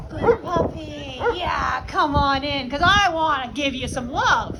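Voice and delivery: warm praise. Shown as a demonstration. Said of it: "But it's with respect".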